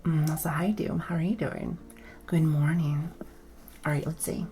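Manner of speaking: soft close whisper; ASMR whisper. Real, not acted. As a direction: whisper a greeting right in the ear. Whispered greetings in ASMR mic.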